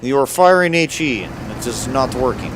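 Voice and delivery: hammed-up Russian tank commander accent; fake Russian accent. Player role-plays a Russian tanker mid-battle, fake Russian accent. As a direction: put on a thick, mock Russian accent.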